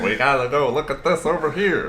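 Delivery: high, loud squeaky sidekick; high cartoon voice. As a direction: chirp it like a cartoon pal. Imitating cartoon character voices.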